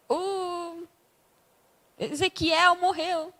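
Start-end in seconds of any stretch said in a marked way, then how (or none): 2.0-3.3 mock lament.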